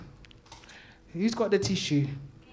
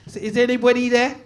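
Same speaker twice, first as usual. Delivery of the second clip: calling out; 6 semitones higher, 8 dB louder than usual. Real, not acted. Calling out to the crowd.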